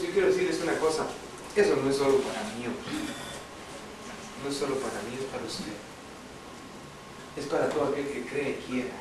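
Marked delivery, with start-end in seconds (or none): 1.5-8.9 soft sincere appeal. Acted. Tono íntimo y bajo.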